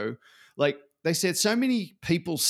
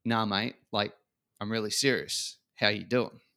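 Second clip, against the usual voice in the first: "Nah, mate", softer and lower, really serious; earnest check-in; 4 semitones lower, 4 dB quieter than usual. Retold or imitated. Leader pressing a staff member, gently serious. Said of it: "And the leader went".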